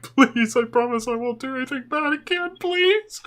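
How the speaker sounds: high, whimpering begging; imitating a grown man bawling; mock crying plea. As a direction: plead in a hammed-up tearful squeal. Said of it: "crying like".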